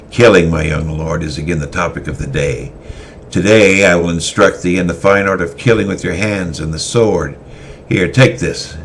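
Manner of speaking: put-on a hardened warrior teaching a young lord to kill; stern swordmaster teaching. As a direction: lay down the lesson like a cold drillmaster. Christoph instructing.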